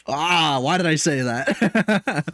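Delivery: slow, drawn-out mock regret; regretful groan. Listening back to himself, regretful groan. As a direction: groan it out in exaggerated self-reproach. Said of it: "and I'm like".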